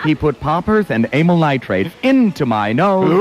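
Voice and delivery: poem recitation. Acted.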